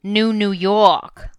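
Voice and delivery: slow drawn-out American New York; a lightly put-on American accent. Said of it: "had an American accent".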